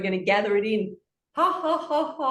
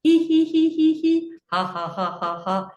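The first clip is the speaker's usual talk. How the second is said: laughs building faster; jumbled laughing; 5 semitones higher than usual. Shown as a demonstration. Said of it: "get faster and faster as you go".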